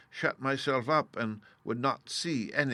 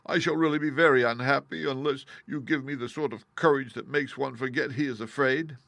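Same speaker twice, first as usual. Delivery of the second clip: timid Lion; 4 semitones higher, 4 dB louder than usual. Acted. Lion pleads.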